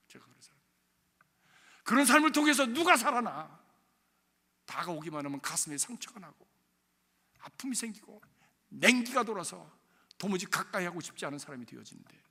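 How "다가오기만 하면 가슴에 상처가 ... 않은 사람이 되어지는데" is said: ordinary talk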